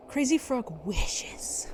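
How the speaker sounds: breathy whispered aside. Real, not acted. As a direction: whisper it under your breath. Muttered aside.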